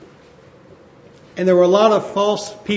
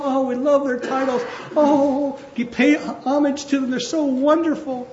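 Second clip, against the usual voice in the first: lightly mocking, gushing followers; a hint of starry-eyed fans cooing; mock adoring crowd; 4 semitones higher than usual. Preacher mimicking people fawning over apostles, mock gushing. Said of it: "the people would be like".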